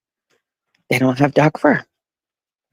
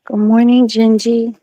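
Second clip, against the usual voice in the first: beam it at the pet; high pet greeting; 8 semitones higher than usual. Pretend. Greeting Gingy, high sing-song pet voice.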